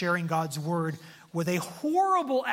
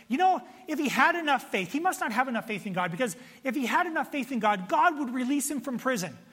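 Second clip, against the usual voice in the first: higher-pitched, insistent critic's voice; judgmental gossip; 5 semitones higher, faster than usual. Acted. Critics picking apart Paul's faith in prison, judgmental. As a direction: reason it out like a know-it-all critic. Voicing critics who judge imprisoned Paul.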